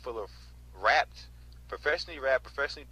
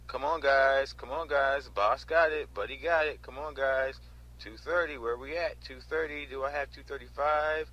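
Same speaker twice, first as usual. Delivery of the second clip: imitating the auctioneer; slower than usual. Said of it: "That's exactly how he says it".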